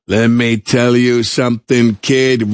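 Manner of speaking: slow, half-sung tough-guy line; mock brassy old-timer slowly crooning the line; tough mentor. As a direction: sing it to the kid like a pool hall pro. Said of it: "talking like this".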